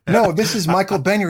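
half-laugh as he sets the mix-up straight; laughing reply. Retold or imitated. Actor laughing as he tells Kaz who is really calling.

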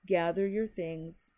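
slow, tight-jawed command; through clenched teeth. Acted. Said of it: "through clenched teeth".

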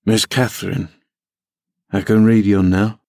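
lightly voiced bumpkin, awkwardly proud; halting, understated pride from a clumsy lad; awkward elation. A narrator's reading. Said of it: "with a stupid mixture of awkwardness and elation".

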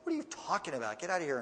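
dismissive brother. Retold or imitated. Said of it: "his brother's like".

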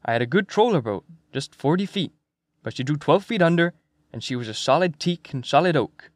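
lightly voiced old seaman with a lilt; old Swede fisherman, proud. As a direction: fondly describe a boat as an old fisherman.

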